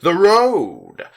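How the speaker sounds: loud, high warning shout; sudden yell. Acted. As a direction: yell it to stop the crash. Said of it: "Stitches suddenly pointed at the street and yelled".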